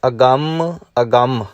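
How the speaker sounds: ਅਗੰਮ with nasal tippi and doubled m, falling; nasal agamm. Shown as a demonstration. Teacher shows students how to say ਅਗੰਮ, nasal tippi. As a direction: stress the nasal ਗੰਮ in ਅਗੰਮ. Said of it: "ਇਸ ਦਾ ਉਚਾਰਨ ਕਰਾਂਗੇ ਆਪਾਂ ਅਗੰਮ".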